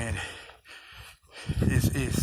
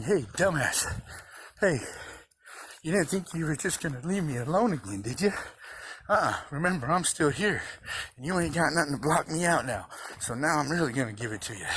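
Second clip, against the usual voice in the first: higher, mocking voice for the brain, lightly voiced; taunting brain voice; 4 semitones higher than usual. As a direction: tease yourself as your own smug brain. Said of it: "my brain's literally saying".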